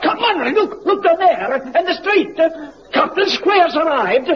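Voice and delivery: high excited calling out; excited shout. Acted. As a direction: point it out, thrilled.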